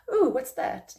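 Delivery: a sudden high, loud "Oh" of surprise; surprised. Pretend. A puzzled person startled by a strange sign. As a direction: catch yourself startled by something strange. Noticing odd bird activity.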